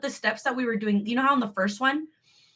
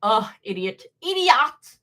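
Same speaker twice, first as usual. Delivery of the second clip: mock self-scold; slower than usual. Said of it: "No, I'm just kidding".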